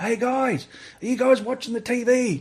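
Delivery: put-on, very high calling out. Retelling calling out to mates from the room: retelling calling out loudly. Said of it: "I've called out".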